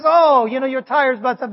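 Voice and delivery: gentle, friendly mock-helpful tone; imitating a Geico character being really nice. Preacher imitates the polite commercial take, gently friendly. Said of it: "he's like really nice".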